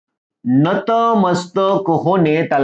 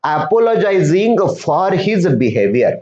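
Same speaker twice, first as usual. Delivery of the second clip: each English word read slowly and clearly to pupils; slow reading of the story; much slower than usual. Shown as a demonstration. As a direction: read the line word by word for the class. Teacher reads story text slowly. (मुलांना सावकाश वाचून दाखवणे)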